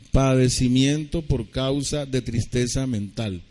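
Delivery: slowed down so it can be written down; slow dictation. Shown as a demonstration. Pastor dictating the definition to listeners, slowly. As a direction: dictate each word slowly. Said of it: "me toca deletrearles".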